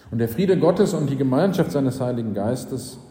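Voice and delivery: measured pulpit blessing with a falling close; closing blessing. Real, not acted.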